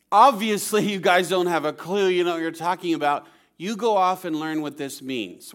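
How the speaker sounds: mock-obvious sarcasm, strong on the first word; sarcastic. Jesus to the Pharisees who don't have a clue, sarcastic. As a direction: voice a mildly sarcastic put-down of know-it-alls. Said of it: "He's sarcastically saying to these Pharisees".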